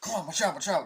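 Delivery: high, loud retold warning shout; hammed-up battlefield shout; mock yell. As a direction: yell the warning like you're in the firefight. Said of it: "and they die, like".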